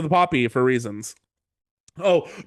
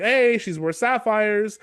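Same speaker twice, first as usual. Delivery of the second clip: mild retold scream, higher and drawn out; mock yell; 5 semitones higher, slower than usual. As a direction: call it out slowly, only half yelling. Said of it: "Jaime screams the word sapphires".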